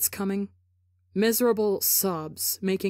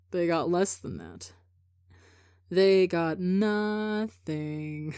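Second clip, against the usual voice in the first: hopeless murmur. Acted. Broken Rambu, dazed and hopeless.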